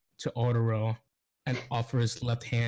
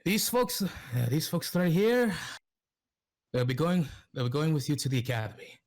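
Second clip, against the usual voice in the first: higher, pointing out the group to them; character speaking; 4 semitones higher than usual. Acted. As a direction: announce the folks pitched up, then rush the end. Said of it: "He says".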